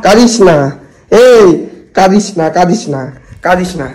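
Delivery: low, hushed comforting; soothing. Real, not acted. Prankster consoles the upset sister after the prank, soothing.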